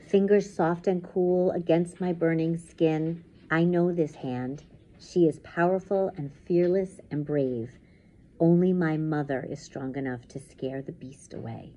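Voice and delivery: measured, dramatic first-person reading; intense story narration. A narrator's reading. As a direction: tell the nightmare as it closes in. Reads story aloud.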